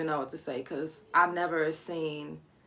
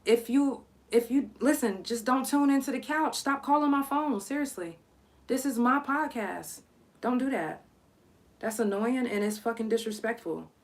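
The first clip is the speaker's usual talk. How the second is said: real irritation at the callers, a bit higher; annoyed rant; 5 semitones higher than usual. Real, not acted. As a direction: scold the people who keep calling. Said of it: "I'm annoyed".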